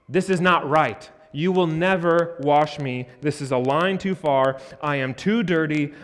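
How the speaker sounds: indignant protest. Acted. Preacher voicing Peter refusing his master, indignant. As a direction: refuse him, a line too far.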